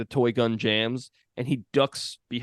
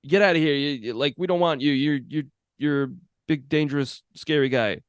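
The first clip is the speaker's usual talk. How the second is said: mock shooing yell; 3 semitones higher than usual. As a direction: chase the giant off, then ease off. Dean driving the giant away.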